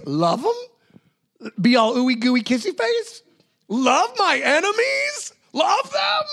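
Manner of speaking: squealing mock incredulity, pitched very high and rising; mock disbelief. Preacher hams up disbelief at loving enemies. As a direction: balk at it in exaggerated disbelief. Incredulous reaction to Jesus' command.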